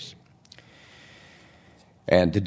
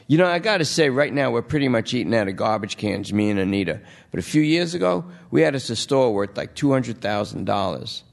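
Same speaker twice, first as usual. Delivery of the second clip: junkie voice; 4 semitones higher than usual. Acted. Lester reminisces.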